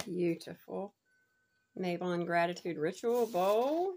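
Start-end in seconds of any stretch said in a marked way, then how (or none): none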